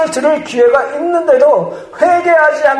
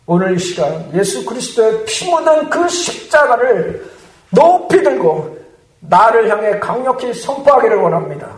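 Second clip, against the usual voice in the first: ordinary talk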